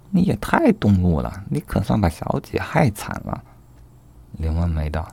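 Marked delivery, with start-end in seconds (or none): 0.1-3.4 higher-pitched indignant rebuke; scolding. Acted. 春香 scolding 柳梦梅 for harming her young lady, indignant. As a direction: berate him for the harm he caused. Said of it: "春香又骂道".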